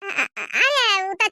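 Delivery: stammering through a laugh; nervous laugh. Acted. Mother laughs off her daughter's question, stammering nervously. Mother caught hiding in-laws' demands.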